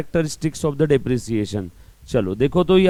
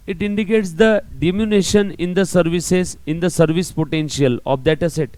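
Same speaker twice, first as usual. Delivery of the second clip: slow dictation; much slower than usual. Shown as a demonstration. Teacher reading the textbook definition aloud for notes, slow. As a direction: read out slowly for notes.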